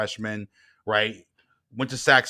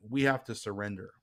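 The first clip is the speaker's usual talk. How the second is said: softer, lower reassurance; calm, earnest counsel; 3 semitones lower, 7 dB quieter than usual. Retold or imitated. Father to his upset son about surrendering, calm and soft. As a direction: gently urge letting go.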